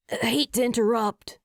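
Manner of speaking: a lightly voiced friendly Reggie; breezy interruption; hint of a different guy; Reggie's voice. A narrator's reading. Reggie poking head in.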